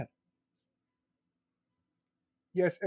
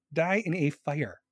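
drawn-out, slower deadpan curse; slow mock curse; 2 semitones lower, slower than usual. Repeating the curse to the viewer with AC, slow and deadpan. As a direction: savour each word like a slow hex.

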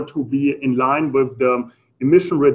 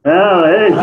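surprised; 4 semitones higher, 8 dB louder than usual. Real, not acted. Audience gives right answer.

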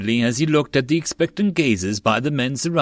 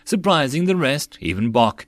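ordinary delivery, nothing marked

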